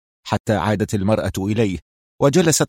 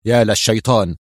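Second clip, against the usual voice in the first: mildly raised protest; mild exclamation. Acted. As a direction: blurt it out, stung. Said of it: "هتف".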